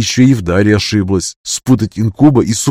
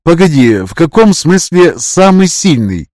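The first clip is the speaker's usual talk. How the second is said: put-on young girl voice; 7 semitones higher, 4 dB louder, slower than usual. Yana demands clarification.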